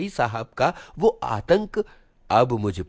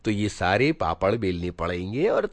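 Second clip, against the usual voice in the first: a stern elder brother scolding at length; lightly voiced scolding elder brother; lecturing elder brother. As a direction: preach down at the younger brother, mocking his pride.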